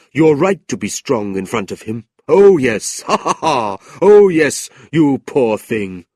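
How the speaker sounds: loud, odd laughing encouragement; gleeful cackling clerk. Acted. Old clerk cheering Kate on, laughing loudly. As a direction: cackle along with sly delight.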